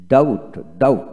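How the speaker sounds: ডাউট twice, with silent b; model pronunciation. Shown as a demonstration. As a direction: model ডাউট clearly, no b before t. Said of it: "এভাবে বলবেন".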